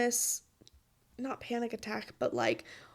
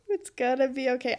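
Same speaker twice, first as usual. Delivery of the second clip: quicker repeat to convince herself; second, brisker try at comfort; self-reassuring; faster than usual. Real, not acted. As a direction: talk yourself into calm. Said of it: "As I'm, like, wiping away tears".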